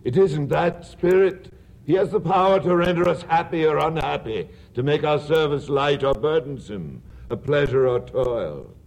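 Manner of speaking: put-on young Scrooge, heated. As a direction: protest like his younger self. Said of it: "speaking unconsciously like his former self".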